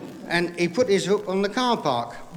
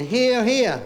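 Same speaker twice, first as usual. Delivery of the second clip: wife's retold shout, pitched up; mock shouting; 6 semitones higher than usual. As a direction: imitate a wife calling out, higher. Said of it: "she started shouting".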